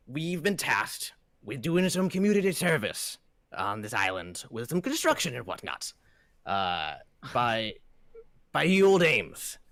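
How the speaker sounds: lightly voiced cheerful dwarf mason; dwarf leader tells the party about the job. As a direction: explain the contract like a jolly foreman. Dwarf leader speaks in character.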